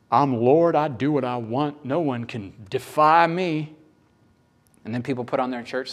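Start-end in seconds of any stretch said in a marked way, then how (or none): 0.1-3.8 lightly voiced imperious deity; mock domineering Lord. Preacher parodying bad theology of God, lightly imperious voice. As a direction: declare it like a mock tyrant god.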